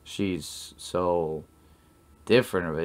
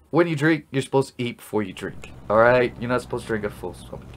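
scolding; 3 semitones higher, 5 dB louder, faster than usual. Acted. Scolding a drunk friend.

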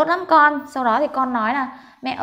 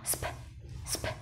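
a bit faster; 18 dB quieter, faster than usual. Shown as a demonstration. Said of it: "Nhanh hơn một chút nào".

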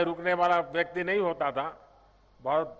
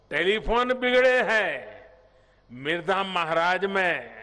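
poem recitation. Retold or imitated. Politician quoting a late leader's poem to the crowd, reciting. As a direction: recite it line by line, pausing after each. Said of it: "अपनी कविता में वो कहते थे".

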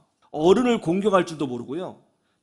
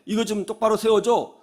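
mild retold appeal; acted request. Old man to student on the bus, mild request. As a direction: ask it like an elder, only lightly voiced. Elder asks student to raise seat.

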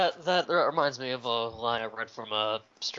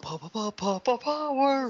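hammed-up ad shout; 9 semitones higher than usual. Repeats the shouted catchphrase.

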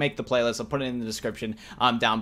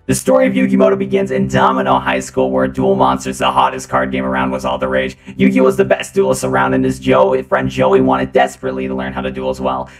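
deep, loud voice-changer robot; 12 semitones lower, 9 dB louder than usual. Acted. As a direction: read it as a pitched-down robot. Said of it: "I'm gonna be using a robot voice".

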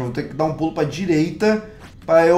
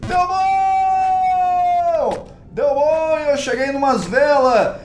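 ecstatic shouting; much slower than usual. Real, not acted. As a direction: scream with joy at the candles. Euphoric after success.

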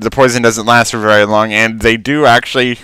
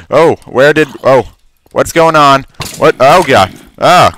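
sudden alarmed outburst, a bit louder; startled panic; 3 semitones higher, 4 dB louder than usual. Real, not acted. Player ambushed by mobs in the game, startled panic. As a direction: caught off guard, blurting out in alarm.

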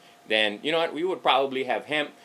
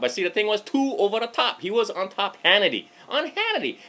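worked-up rant; 9 semitones higher than usual. Real, not acted. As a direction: rise up in outrage over it. Ranting about Hannity show.

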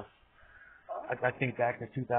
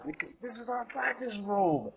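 high exasperated scolding, slow then louder; 8 semitones higher, 4 dB louder than usual. Real, not acted. To the dog that wrecked the practice room, high loud scolding.

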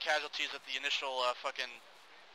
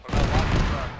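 shouting; 11 dB louder than usual. Real, not acted. Urgent call during firefight.

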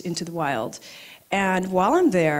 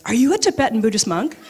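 blurted excitement; 3 semitones higher, 5 dB louder, faster than usual. Retold or imitated. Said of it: "the first thing that came out was".

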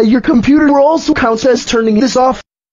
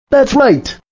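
a curt, mad "That's right" at normal loudness; "That's right" said flatly mad, not raised. Acted. Computer voice announcing it is now mad. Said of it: "I am now mad at you".

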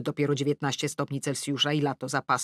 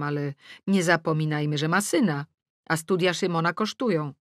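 plain reading voice

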